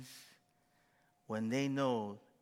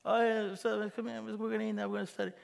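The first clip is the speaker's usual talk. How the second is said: mock cheerful welcome; 7 semitones higher, faster than usual. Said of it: "everybody was like".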